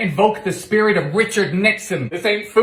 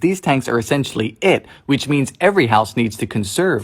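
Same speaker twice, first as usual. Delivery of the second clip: low-pitched presenter narration; explainer narration; 6 semitones lower than usual. Acted. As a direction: explain it to camera in a lowered, measured voice. Presents facts about Bermuda.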